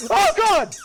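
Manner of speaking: high-pitched cackle and yelp; squeaky creature laugh. Acted. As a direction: giggle like a tiny ghost.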